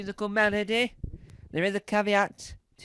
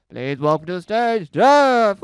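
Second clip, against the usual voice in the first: booming compere intro, louder to the name; mock announcer; 12 dB louder than usual. Introducing the act to the crowd as a booming compere.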